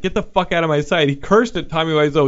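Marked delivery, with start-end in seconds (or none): 0.0-1.1 milder repeat, less raised; milder retelling. Retold or imitated. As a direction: say it calmer, just reporting. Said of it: "The guy was just like".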